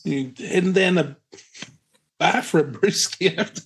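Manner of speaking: high, hammed-up Australian bloke; Aussie accent. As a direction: play a cheery outback mate. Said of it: "random noises coming out of my head".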